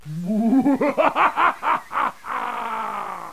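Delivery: long, high mad-villain laugh; evil laugh. Acted. Villain plunging Mario into darkness, maniacal laugh. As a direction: burst into a maniacal gloating laugh.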